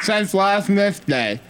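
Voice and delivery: slurred numb-mouth speech; numb from the dentist. Pretend. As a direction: talk like your lips are numb. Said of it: "my lips and my gums and my teeth are numb".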